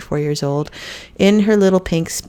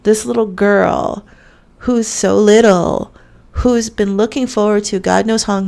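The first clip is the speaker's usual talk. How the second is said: tearful; 4 semitones higher, 4 dB louder than usual. Real, not acted. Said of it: "I'm getting tears in my eyes right now".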